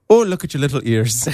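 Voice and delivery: lightly put-on Irish leprechaun voice; mock Irish lilt, playful leprechaun. Host showing off a practiced Irish line, leprechaun accent. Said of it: "a leprechaun who's concerned with the size of someone's ears".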